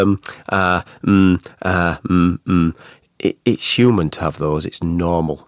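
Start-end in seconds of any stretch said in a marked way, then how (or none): 0.0-2.8 hesitant ums and uhs; nervous speaker's fillers; filler sounds. Shown as a demonstration. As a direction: stumble with um, uh, mm. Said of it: "is to go".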